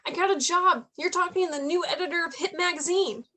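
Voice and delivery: proud excited news. Acted. Announcing a new job on phone.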